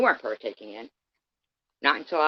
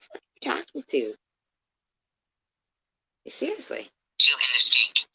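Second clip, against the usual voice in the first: much higher, louder and fast; real raging outburst; furious yell; 9 semitones higher, 9 dB louder than usual. Real, not acted. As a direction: yell at her in disbelief. Yelling at Courtney.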